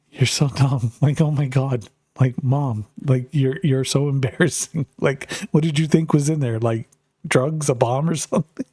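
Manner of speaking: retelling a daughter's scolding through laughs; lightly voiced mortified daughter, amused; embarrassed teen daughter, laughing. Daughter scolds mom over the package, embarrassed and laughing. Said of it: "completely embarrassed and, like, just losing it".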